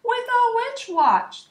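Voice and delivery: high, slow witchy screech; hammed-up witch answer. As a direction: croak it out like an old witch.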